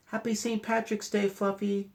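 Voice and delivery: put-on high, bright cheer from a crowd of kids; cheerful kids' greeting. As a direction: call it out like happy children.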